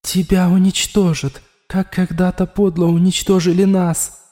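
a bitter voice inside his skull; inner voice warning. A narrator's reading. The voice in Raul's head warns him of death, bitter.

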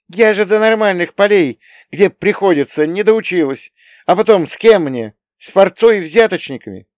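loud, high, scornful outburst; contemptuous. Acted. Young woman scoffs at the men she was given to, loud and high. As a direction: spit out the scorn. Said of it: "презрительно фыркнула".

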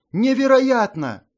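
Ashley stunned by the news; amazed. A narrator's reading. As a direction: gasp it in disbelief. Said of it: "Изумлению Эшли не было предела".

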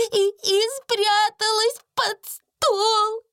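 очень высоко, со всхлипами и запинками; лепетать сквозь слёзы; испуганная служанка Бекки. A narrator's reading. (плачущая Бекки оправдывается)

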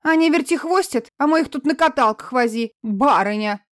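выше и громче, брюзжа; ругайся как злая санитарка; бранчливая медсестра. Acted. Сестра продолжает бранить. (медсестра бранит Марину, громко и высоко)

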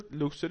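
luxury as "LUK-shree"; standard pronunciation. Shown as a demonstration. Teacher summing up for student, luxury as standard "LUK-shree". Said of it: "طبعًا ده النطق الاستاندرد".

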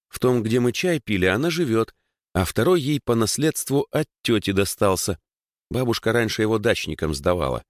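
a hint of a girl explaining eagerly; lightly voiced Dasha, explaining.

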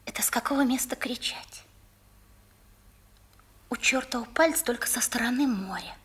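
breathy confiding whisper. Acted. The girl whispers to the boy where to shout. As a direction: tell the secret under your breath. Girl shares secret of echo.

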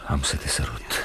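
low intimate whisper. Acted. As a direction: whisper it close to her. Moonlit terrace, about to kiss. (șoaptă tandră)

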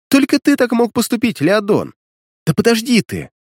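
high, mocking teasing girl; sarcastic girl's voice. A narrator's reading. Alina mocks the hero for bringing books, high sarcastic. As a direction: tease him high and sarcastic.

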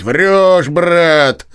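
interrupting retort. Acted. Nozdryov cuts off Chichikov, loud scoffing. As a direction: cut him off, calling the lie. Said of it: "сказал Ноздрёв".

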